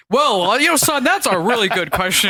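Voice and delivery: lightly voiced lecturing dad; a hint of a patient know-it-all father; folksy old sitcom dad. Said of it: "Barry would go on like".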